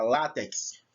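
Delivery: látex with LÁ as the strongest syllable; stressed first syllable. Shown as a demonstration. Teacher asks students to notice látex, first syllable stressed. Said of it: "o lá é o mais forte".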